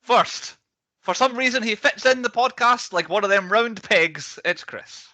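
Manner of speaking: high, slow Alabama drawl between giggles; slow, high, dreamy Southern storyteller introducing guests; Southern drawl impression.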